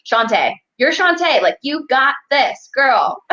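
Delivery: high, excited pep talk, slowing on "you got this"; hyped-up mentor. Retold or imitated. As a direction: cheer her on like a best friend. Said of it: "You need someone there that's like".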